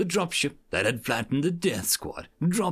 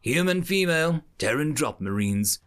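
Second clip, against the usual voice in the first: flat translator device voice; 4 semitones higher than usual. Acted. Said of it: "the translator droned".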